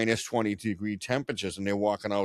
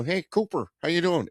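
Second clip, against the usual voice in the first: higher, friendly Texan hello; mock Texan greeting; 8 semitones higher than usual. Dallas locals greeting Cooper in a mock Texan accent. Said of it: "everywhere they go".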